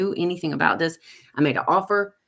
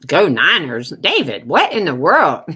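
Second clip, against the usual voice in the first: loud cheer; 8 dB louder than usual. Real, not acted. Cheering team, teasing viewer.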